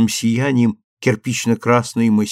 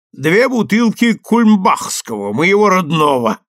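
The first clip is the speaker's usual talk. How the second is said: proud order; 7 semitones higher, 4 dB louder than usual. A narrator's reading.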